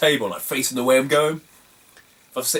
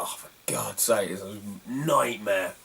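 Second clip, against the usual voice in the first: exasperated sigh; 6 semitones lower, 8 dB quieter, slower than usual. Retold or imitated. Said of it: "I'm like".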